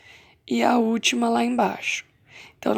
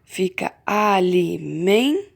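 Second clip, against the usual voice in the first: drawn-out, slow syllables; teacher slowing down on alimen-; slow syllable split; 2 semitones lower, much slower than usual. Shown as a demonstration. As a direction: stretch alimen- out slowly to show the break. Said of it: "E por último".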